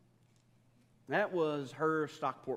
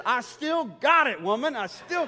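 higher, louder, slow hammed-up swagger; mock boast; 11 semitones higher, 11 dB louder than usual. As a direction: crow it like a proud rooster, laughing at the end. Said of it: "I said".

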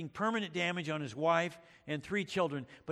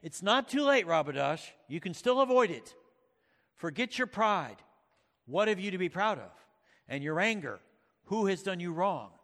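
higher, louder grave rebuke; stern lion's warning; 3 semitones higher, 5 dB louder than usual. Acted. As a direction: warn the prince like a stern king. Voicing Aslan's stern warning.

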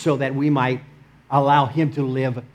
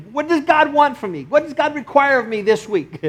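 questioning believer; 10 semitones higher than usual. Acted.

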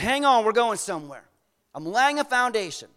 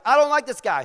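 displeased king; 5 semitones higher, 5 dB louder than usual. Retold or imitated. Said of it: "Ahab's like".

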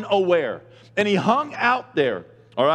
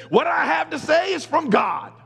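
proclaiming shout; 8 semitones higher than usual. Retold or imitated. Preacher voicing Jesus to the temple crowd, shouting. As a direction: stand up and declare it to the crowd.

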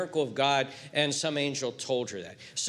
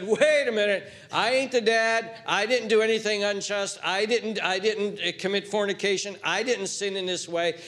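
public protest; 3 semitones higher than usual. Acted. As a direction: protest publicly, easing off toward the end. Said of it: "could have easily publicly said".

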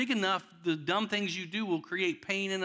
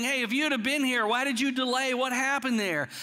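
raised, accusing questions; mock complaint; 5 semitones higher than usual. The sisters slamming Jesus for his delay, raised pitch. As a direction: throw the blame at him. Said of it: "Even when they were slamming him".

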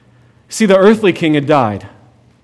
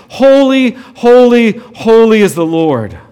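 higher, louder "Holy, holy", then slower; proclaimed refrain; 3 semitones higher, 3 dB louder, slower than usual. Acted. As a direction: ring out the refrain.

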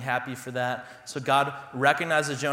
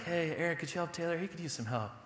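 kindly wife; 4 semitones higher, 7 dB quieter, faster than usual. Retold or imitated. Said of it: "maybe my wife is just so kindly like".

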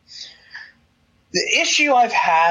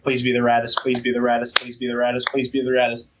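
pleading; 7 semitones lower, 3 dB quieter than usual. Retold or imitated. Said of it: "And I'm like".

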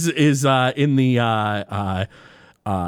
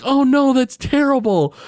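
imitating dismayed wife; 12 semitones higher than usual. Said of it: "And she's like".

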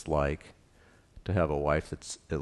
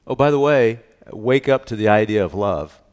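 God's command; 2 semitones higher, 10 dB louder than usual. Retold or imitated. God's command voiced in sermon.

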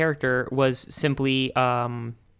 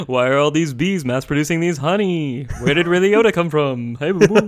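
Yogi stand-up bit. Pretend. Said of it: "Yogi is doing stand-up".

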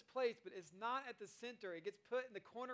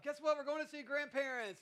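higher, louder, gleeful; spring the surprise on the kids; excited parent announcement; 6 semitones higher, 7 dB louder than usual. Retold or imitated. Father announcing a grandparents trip to kids, excited.

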